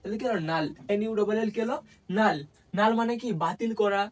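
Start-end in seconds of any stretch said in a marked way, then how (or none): 0.5-0.7 নাল with the u said as an open "aa". Shown as a demonstration. Teacher puts null together for students, pronunciation demo. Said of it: "ইউ এর উচ্চারণ". 2.2-2.4 নাল with the u said as an open "aa". Shown as a demonstration. Teacher puts null together for students, pronunciation demo. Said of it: "ইউ এর উচ্চারণ".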